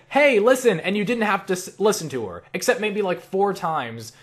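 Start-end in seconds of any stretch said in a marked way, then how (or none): 0.1-0.8 high, loud pestering call; Navi. Retold or imitated. Gamer quoting the less annoying helper, high and loud. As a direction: imitate a nagging helper's cry. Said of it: "At least Navi said".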